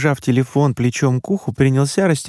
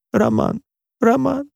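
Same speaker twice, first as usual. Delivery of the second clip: sobbing mother's voice, climbing much higher on each call; a desperate mother repeating her son's name through tears, going higher each time; mother sobbing his name; 14 semitones higher, slower than usual. A narrator's reading. Mother sobbing into the phone to her son, her pitch rising higher with each call. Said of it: "повторяла мама, рыдая".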